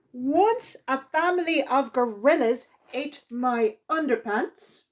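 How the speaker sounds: a cross grown-up ranting; furious man. Acted. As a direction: scold the cub in outrage. Furious man scolds the cub.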